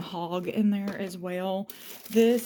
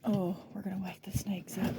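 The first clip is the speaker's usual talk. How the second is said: hushed, wary whisper; softly, afraid of waking something; 5 dB quieter than usual. Real, not acted. Worried about waking the basement snakes, whispering. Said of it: "I'm whispering, I'm being quiet".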